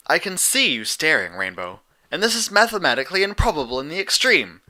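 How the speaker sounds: put-on prim, precise young mare; Twilight's voice. A narrator's reading.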